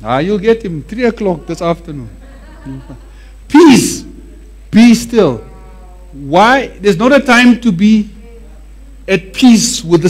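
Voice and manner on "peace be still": louder, higher command to the storm; commanding call. Shown as a demonstration. Preacher urging the church to speak to the storm, commanding. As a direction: order the storm to stop. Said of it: "Why don't you talk to it?".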